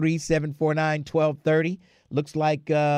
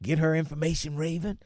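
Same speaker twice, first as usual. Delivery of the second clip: hushed, softer voice; whispering; 3 semitones lower, 7 dB quieter than usual. Real, not acted. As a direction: drop to a hush for a caller at work. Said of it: "Why am I whispering now?".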